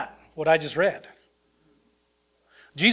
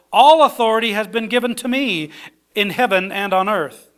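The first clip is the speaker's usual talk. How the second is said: raised, ringing proclamation of Christ's words; proclaimed scripture; 4 semitones higher, 4 dB louder than usual. Acted. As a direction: declare it to the whole room. Reading Jesus' words aloud.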